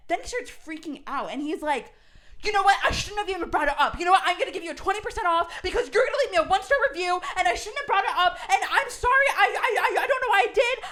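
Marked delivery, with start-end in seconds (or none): 2.4-10.8 flustered outburst. Retold or imitated. Owner freaking out, apologizing.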